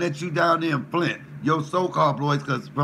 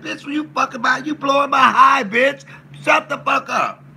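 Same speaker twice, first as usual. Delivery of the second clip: retold yell; 10 semitones higher, 6 dB louder than usual. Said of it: "They was like".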